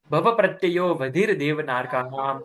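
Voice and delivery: measured chant of the full sutra for the class to echo; full sutra recitation. Shown as a demonstration. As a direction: recite the whole sutra evenly as a model. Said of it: "अब पूरा।".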